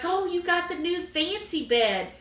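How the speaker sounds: high-pitched imitation of impressed staff; mock awe. New Zealand hospital staff admiring an American's bed, mock awe.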